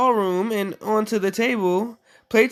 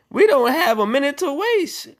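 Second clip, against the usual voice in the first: higher, urgent mouse voice; urgent cry; 6 semitones higher, 3 dB louder than usual. A narrator's reading. Gus the mouse urging Jack, urgent and high. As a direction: sound the alarm, no time to lose. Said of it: "cried Gus".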